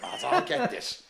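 high and laughing through the words; laughing retelling. Retold or imitated. Retelling mate stepping in, laughing high and slow. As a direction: crack up while quoting your mate. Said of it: "Me mate went".

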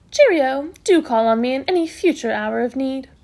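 loud, lilting cheerio; breezy matron farewell. Acted. Matron leaving through the cupboard, breezy. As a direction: sign off with brisk good cheer.

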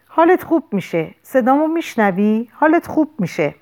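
high, urgent, pleading comfort; anxious reassurance. A narrator's reading. Lou holding wounded Sam's hand, anxiously reassuring him. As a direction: plead with him that he'll be fine.

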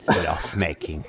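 low, sultry Latino love making; Latino accent. Pretend. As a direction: say it like a Latin lover. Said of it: "it requires a Latino accent".

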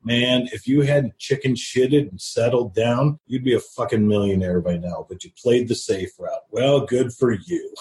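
understated imitation of a jeering uncle; mocking. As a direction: needle him lightly, drawing out the sarcastic congratulations. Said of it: "he just sits there mocking me".

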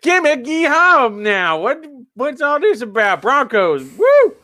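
high, loud mock cowboy whoops; fake cowboy accent. Mocking a wrestler's fake cowboy gimmick, loud whoop. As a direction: ham up a hillbilly cowboy voice. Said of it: "James Storm's just like".

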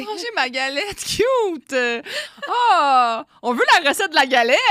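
high, loud excited squeal; too much caffeine. Real, not acted. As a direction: gush with over-the-top glee. Gushing over friend's galette.

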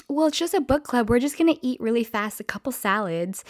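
high, quick wheedling voice; pleading customer. Retold or imitated. Book club woman to staff at closing, high coaxing. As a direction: imitate a customer talking her way in, high-pitched. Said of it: "And she's like".

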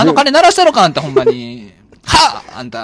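belting diva voice; impression of a singer. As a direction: hit it like a diva singer on stage. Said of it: "和田アキ子の".

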